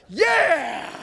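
loud, high "yeah" cheer; triumphant yell. Retold or imitated. Buddy cheering after the van lands, loud triumphant yell. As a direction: holler it out in triumph.

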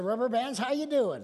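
loud, high, bright hello to the rubber bands; cheery greeting. Pretend. Preacher shows congregation how to greet rubber bands, loud and high. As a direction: call into the drawer like greeting old friends. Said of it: "Go home and talk to 'em".

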